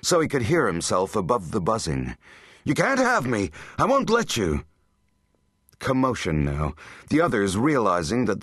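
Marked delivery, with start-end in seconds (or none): 2.6-4.6 high, defiant cry. A narrator's reading. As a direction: refuse them in a raised, panicky voice. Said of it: "he cried loudly".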